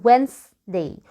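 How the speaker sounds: Wednesday slowly as 'Wenz, day'; silent D. Shown as a demonstration. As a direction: model Wednesday without sounding the first D. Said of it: "يعني مش هننطقه".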